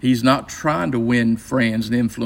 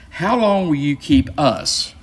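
"us" set apart and held at the end; slow the question down and lean on "us"; stress on US; 3 semitones higher, slower than usual. Shown as a demonstration. Teacher reading the leaders' demand, stress on "us". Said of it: "you need to emphasize the us there".

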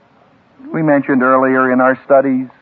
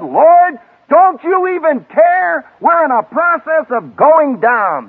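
panicked plea; 12 semitones higher, slower than usual. Retold or imitated. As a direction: beg for help as the boat sinks. Panicked fishermen crying to Jesus.

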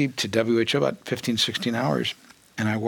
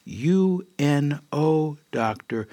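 finger-wagging guru; slower than usual. Retold or imitated. Guru wagging a finger at the disciple, slow deliberate scolding. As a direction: spell it out slowly like a teacher scolding.

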